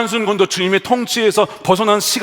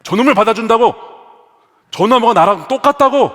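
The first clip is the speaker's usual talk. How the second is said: acted resentful protest, growing louder and higher; indignant elder brother; 3 semitones higher, 3 dB louder than usual. Elder brother protesting his father taking back the prodigal, angry. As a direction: build into a mock-outraged complaint. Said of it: "막 화가 나는 거죠".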